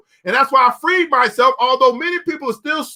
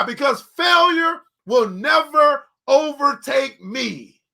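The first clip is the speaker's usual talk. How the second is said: fervent slow shout; much slower than usual. Real, not acted. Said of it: "preaching climax".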